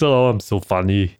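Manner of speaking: light mock Arnie accent. Podcaster mimicking Arnie in interviews, light Arnie accent. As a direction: slip slightly into an Arnie accent. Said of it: "I'm doing the accent".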